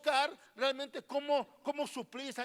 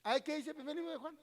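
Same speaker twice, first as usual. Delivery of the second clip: quicker, softer, with a teasing sigh on "Ay"; mock lament; 3 semitones higher, 4 dB quieter, faster than usual. Preacher teasing a silent congregation, mock lament.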